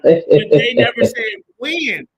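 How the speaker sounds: loud, slow, NEVER hit hard; emphatic insisting. Real, not acted. Heated argument, insisting.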